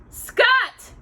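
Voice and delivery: high, loud alarmed yell; shout. A narrator's reading. Pa shouts down the well for Scott, high alarmed yell. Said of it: "he shouted".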